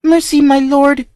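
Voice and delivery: high, tearful begging; sobbing plea. Acted. Terrified child begs the count, sobbing. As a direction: plead through sobs. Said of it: "sobbed Tina".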